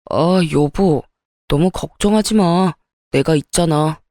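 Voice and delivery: a touch of husbandly comfort; reassuring husband. Acted. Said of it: "목소리만 듣는데도 든든하더라고요".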